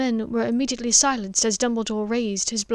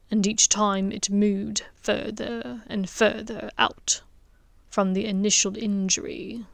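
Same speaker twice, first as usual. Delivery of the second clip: lightly voiced Snape. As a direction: explain coolly and carefully. Snape explains lowly.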